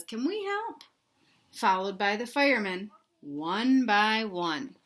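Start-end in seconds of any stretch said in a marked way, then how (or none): 0.0-0.8 fireman's voice. Acted. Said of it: "Fireman says".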